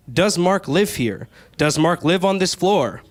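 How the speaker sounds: mock-reasonable slow questions; careful questions. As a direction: spell each question out politely. What I should have said, careful.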